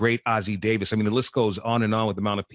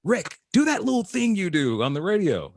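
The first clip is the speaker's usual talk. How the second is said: voicing his cousin; 9 semitones higher than usual. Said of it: "She'd say".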